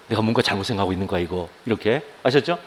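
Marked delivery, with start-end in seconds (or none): 0.1-1.5 startled self-check. Shown as a demonstration. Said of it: "깜짝 놀라면서 스스로".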